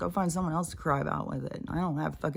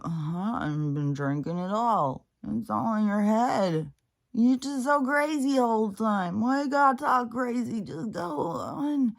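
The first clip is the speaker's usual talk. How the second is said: mock drunk denial; 4 semitones higher than usual. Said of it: "drunks sit there".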